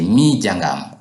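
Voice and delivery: emphatic Mi before jangam; stress on Mi. Shown as a demonstration. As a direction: lean on "Mi" to emphasize. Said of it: "If I want to emphasize".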